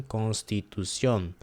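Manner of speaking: constitución slowly, with the final "ción" stressed; careful constitución, accent on the last syllable; elevated ON. Shown as a demonstration. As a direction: draw out constitución and lean on "CIÓN". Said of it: "kinda like a more elevated".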